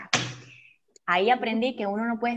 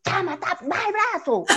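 high, laughing order to put the arm down; blunt friend, laughing; 8 semitones higher than usual. Retold or imitated. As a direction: tease her friend bluntly, high and giggly. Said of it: "yo voy a decir".

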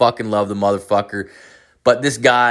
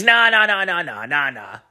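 insistent coworker nah; 7 semitones higher than usual. Retold or imitated. Coworker refusing, voiced.

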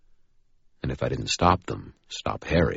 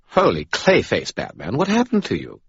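Bob voice; 7 semitones higher, 5 dB louder than usual. Acted. Bob the skull speaks.

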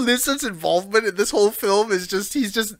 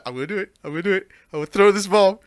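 fast, manic villain voice; villain impression; faster than usual. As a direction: rattle it off like a villain. Voicing villain in scene.

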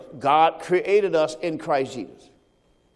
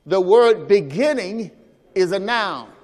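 louder, leading them to repeat it; louder congregational call line; 3 dB louder than usual. Shown as a demonstration. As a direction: call it out so they echo you. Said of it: "Say that with me".

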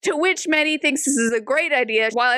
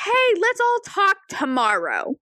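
high, slow, soothing put-on voice; smooth it over sweetly and unhurriedly; placating Meddy; 8 semitones higher than usual. Meddy putting off her angry family, slow high placating.

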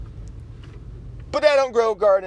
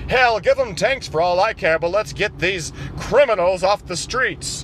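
lower, folksy conservative voice; low Republican caricature; 3 semitones lower than usual. Acted. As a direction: talk down low like a good ol' boy. Republican character again.

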